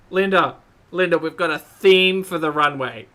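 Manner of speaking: loud laughing shout of a name; laughing loudly. Real, not acted. Laughing at holiday theme.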